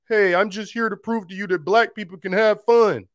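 put-on cheerful announcer voice; mock cheerful claim. Pastor mocking a silly claim about black people. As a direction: parody a silly proud claim. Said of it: "That's literally like me saying".

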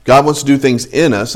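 "in" picked out as the key word; stress on "in". Shown as a demonstration. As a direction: lean on "in" before "us". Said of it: "remember what I said at the very beginning".

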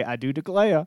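lightly imitated Georgia accent; Southern accent. Brothers whenever Georgia is brought up, mock Southern accent. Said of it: "start talking like that".

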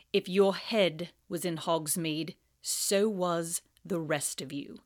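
menacing teacher; cold Snape voice. Acted. Snape voiced in read-aloud.

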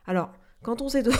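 breaking off into a cough; words cut off by a cough. Real, not acted. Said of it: "je tousse encore un peu".

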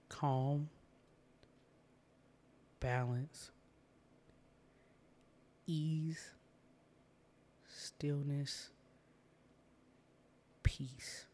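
long silences between each word; slow repeat. Shown as a demonstration. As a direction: let each word hang before the next. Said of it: "So I'm gonna say that again".

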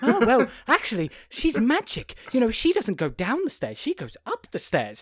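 high, animated mock puzzling-it-out; hammed-up songwriter working out a problem; acted brainwave. Songwriters talk through a lyric that sounds wrong, hammed-up excitement. Acting songwriters having a sudden idea.

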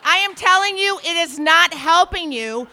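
loud, high scolding; furious telling-off; angry lecture. Retold or imitated. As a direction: hammer each word home. Telling off the pounder.

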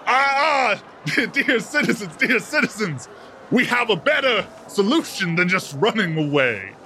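high, booming showman address; loud showman. Acted. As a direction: reassure the fleeing crowd grandly. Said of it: "Doctor Clarkson loudly says".

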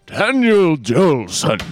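drawn-out, swooping, theatrical name read; put-on character voice. Reading out a patron's name, hammed-up character voice. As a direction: stretch the name out slowly and theatrically.

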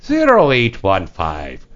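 measured, slow repeat of the digits; slow dictation. Real, not acted. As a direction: give each digit its own room. Host repeats number slowly.

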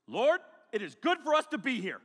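flustered high blurt; nervous Peter. Acted. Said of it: "He stresses out".

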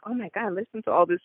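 lightly acted, awestruck disbelief; mock gasping amazement. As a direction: play an amazed audience reacting. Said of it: "like, gasping".

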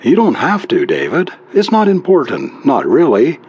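high wife voice with a touch of sighing; mildly resigned, dropping off at the end; deep sigh. A narrator's reading. Wife lets husband off reading, mildly sighing. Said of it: "she sighed deeply".

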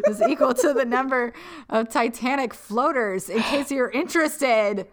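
lively put-on Minnesota accent. Reading the town's population from the letter, playful Minnesota accent. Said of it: "I'm just slipping into it now".

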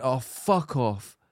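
slow, drawn-out, tired dismissal; exhausted fuck off. Shown as a demonstration. Showing her friend exactly how she said it, slow and exhausted. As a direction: sigh it out like you've had enough. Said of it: "like that".

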